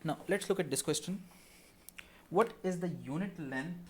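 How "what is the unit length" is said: mid-sip, talking while drinking water. Real, not acted. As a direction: say it with water in the mouth. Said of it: "sorry, I'm drinking some water here".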